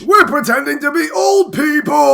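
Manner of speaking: put-on high, thin old-man squeak; mock a creaky old man; very old faint voice. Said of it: "that old guy play".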